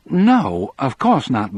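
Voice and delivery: high, loud burst of denial; startled backtrack, pitch jumping up; hasty denial. A narrator's reading. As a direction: cut off the idea at once. Wife hastily backs off.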